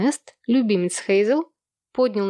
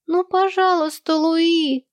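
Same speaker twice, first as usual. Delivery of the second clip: put-on much higher, louder child whine; pleading whine; 9 semitones higher, 3 dB louder, slower than usual. The twins begging their sister for a story, whining. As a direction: beg like whining little twins. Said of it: "умоляюще заныли близнецы".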